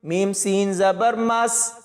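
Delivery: slow, syllable by syllable Quran spelling; patient tajweed teacher spelling each syllable; slow spelling drill. Shown as a demonstration. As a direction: spell each letter out slowly for the student. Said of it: "grammar کا خیال رکھتے ہوئے پڑھنا".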